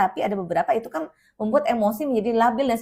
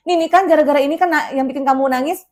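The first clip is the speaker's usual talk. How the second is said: mock distracting; 3 semitones higher, 5 dB louder than usual. Shown as a demonstration. Distracting the child, louder.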